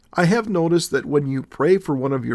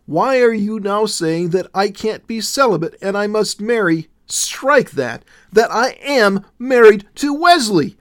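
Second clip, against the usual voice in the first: higher and louder, anxious outburst; nervous exclaiming; 6 semitones higher, 4 dB louder than usual. A narrator's reading. Willow protesting to Jesus, nervous and high-pitched. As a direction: pour it out in a rising nervous panic. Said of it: "she exclaimed nervously".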